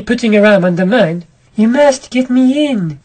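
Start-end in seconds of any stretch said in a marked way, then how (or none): 1.6-3.0 higher, slow urgent plea; desperate masked woman begging; pleading woman. Acted. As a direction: beg him to get you inside. Masked woman begs narrator.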